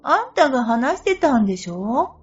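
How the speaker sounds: high, loud insistent argument; exasperated. Retold or imitated. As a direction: argue it back, exasperated. Heated back-and-forth argument.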